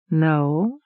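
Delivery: a long, lingering no; drawled no. A narrator's reading. Harper answering Sylvina while pulling at his lip, drawled. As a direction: stretch the word out thoughtfully. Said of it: "the harper drawled the word".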